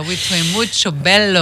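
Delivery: playful mock-Italian accent; a touch of Italian accent. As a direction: put on a light Italian accent. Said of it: "on vient de l'entendre".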